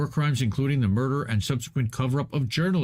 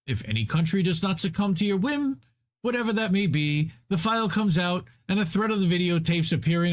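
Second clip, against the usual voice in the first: higher-pitched, declaiming read-aloud; emphatic article reading; 4 semitones higher than usual. A narrator's reading. Reader accusing America of blackmailing allies, emphatic article reading. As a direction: read it out as a pointed indictment.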